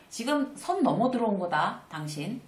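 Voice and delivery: a mild smiling professional warning; calm, pleasant but firm. Shown as a demonstration. Speaker demonstrating to viewers, warning a rude coworker with a smile. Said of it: "이렇게 웃으면서 프로답게 얘기한다".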